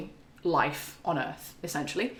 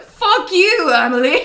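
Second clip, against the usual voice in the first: much higher, loud playful yell; mock outburst; 9 semitones higher, 10 dB louder than usual. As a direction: yell it at her, half laughing. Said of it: "And I was like".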